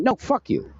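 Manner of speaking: high-pitched mimicked brush-off; mock indignant comeback; retold angry refusal. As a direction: imitate her snapping back a refusal. Acting out her refusal.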